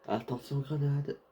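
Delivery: sharp loud warning call; grenade warning yell. Real, not acted. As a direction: shout the warning fast.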